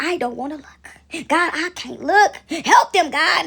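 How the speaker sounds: lightly acted horrified plea to God; appalled ancestor. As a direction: drag out the words, begging. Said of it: "Some of these ancestors were like".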